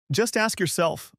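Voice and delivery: high, slow challenge; insistent. A narrator's reading. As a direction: press the point hard. Husband argues with wife.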